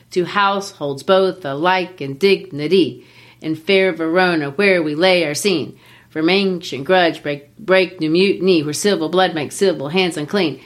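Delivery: every second syllable punched, as in "both aLIKE in DIGniTY"; exaggerated iambic meter. Shown as a demonstration. Teacher shows how Romeo and Juliet opens, exaggerated beat on "both alike in dignity". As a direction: recite "To households both alike" in a sing-song da-DUM beat. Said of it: "I made it exaggerated".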